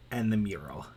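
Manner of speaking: hushed dramatic whisper. Real, not acted. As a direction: breathe it like a secret. Dramatic reveal of the mural.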